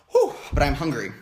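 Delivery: winded, blowing out a breath; a little breathless from running upstairs; puffing after stairs. Real, not acted. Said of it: "running up and downstairs".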